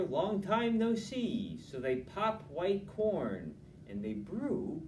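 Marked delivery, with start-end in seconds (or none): 0.0-1.6 Hare's greeting. Acted. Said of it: "says Hare".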